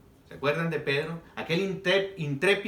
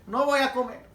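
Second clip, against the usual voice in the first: shocked higher refusal; Peter refusing; 7 semitones higher than usual. Acted. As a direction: cry out no in alarm.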